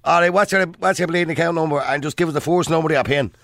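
rough, chatty Irish bank caller voice; broad local Irish accent. Acted. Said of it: "would you trust him, or would you trust".

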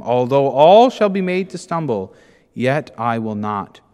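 loud then slow and firm; defiant protest. Acted. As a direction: insist you won't fall. Peter protesting.

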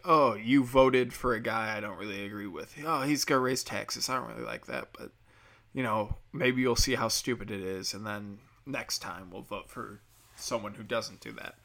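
calm, shrugging disagreement; mild disagreement. Retold or imitated. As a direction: shrug it off politely. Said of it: "it's no longer like".

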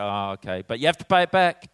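hammed-up dad laying down terms; grudging dad setting out a payback plan; grudging parent. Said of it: "And go".

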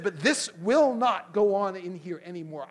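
slow, emphatic putting the foot down; moderately heated ultimatum; retold angry scolding. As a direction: replay a firm telling-off. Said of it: "for yelling at you".

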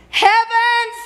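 sudden high loud cry; exclaiming. Real, not acted. Preacher crying out to the congregation in awe. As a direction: burst it out in awe.

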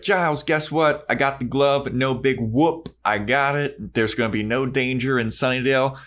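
lightly voiced cheerful Buffy; chipper Buffy. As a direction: pitch up, breezy and proud.

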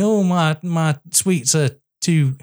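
mock complaining child, dragged out; complaining kids. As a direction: grumble slowly like a kid with sticky sweets. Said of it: "the kids are complaining".

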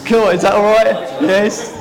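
grinning question; laughing. Real, not acted. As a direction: still laughing. Checks after joke.

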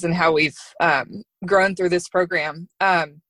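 nervous, shaky speaking voice. Real, not acted. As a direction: voice trembling with emotion. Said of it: "sorry, my voice is shaky".

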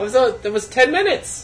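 high, loud dramatic wail; mock shout. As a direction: wail it like a kitchen disaster. Mock kitchen disaster outcry.

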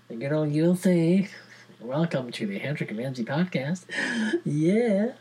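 a hammed-up, loose American accent; dodgy American accent. Podcaster hailing the USA in a dodgy American accent. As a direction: greet the USA like a mock American host. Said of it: "Why am I speaking in a dodgy accent?".

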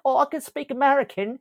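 put-on high-pitched parody of someone doing an American accent; mock American accent. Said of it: "an American, uh, accent".

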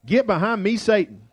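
mildly acted stern rebuke; tough rebuke. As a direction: quote a tough reprimand with falling finish. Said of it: "And it's tough".

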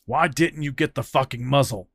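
loud angry demand. Acted. Cyril demanding why Fran skipped the muzzle, angry. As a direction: berate him, heated.

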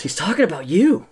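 a touch of a sly little goblin; small goblin voice. Acted. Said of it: "Gorm pokes Brannick and says".

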